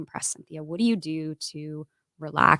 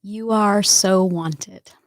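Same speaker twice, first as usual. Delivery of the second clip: tender message. Real, not acted. Message to her future children.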